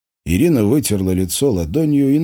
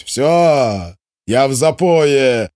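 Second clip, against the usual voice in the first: angry brush-off; 6 semitones higher, 4 dB louder, much slower than usual. A narrator's reading. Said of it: "сердито бросил Димон".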